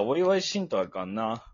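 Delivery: put-on Kansai dialect, half-joking; mock Kansai dialect. Mock Kansai dialect to tease his co-host. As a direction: toss out a fake Kansai phrase. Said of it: "なんで変な関西弁使う？".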